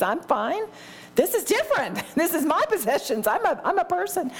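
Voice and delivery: mocking imitation. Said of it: "isn't that how twisted in your mind".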